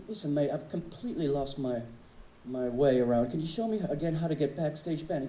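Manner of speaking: asking the guard for backstage in a fake English accent. To the security guard, in a fake English accent. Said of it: "put on this fake English accent".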